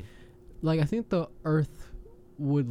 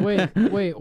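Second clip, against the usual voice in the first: louder laughing wait; 4 semitones higher, 5 dB louder than usual. Real, not acted. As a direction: cut in while laughing. Laughing interruption.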